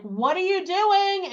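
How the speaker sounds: high-pitched, slowed mock yell of a coach; a coach half-yelling at a client who skips meals. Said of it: "you would sort of yell at me".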